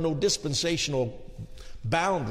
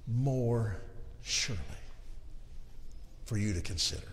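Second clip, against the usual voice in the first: hushed suspense; 4 semitones lower, 8 dB quieter than usual. Real, not acted. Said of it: "building suspense".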